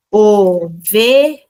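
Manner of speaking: Ovelha slow and loud, syllables apart; syllable split. Shown as a demonstration. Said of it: "pode usar materiais concretos".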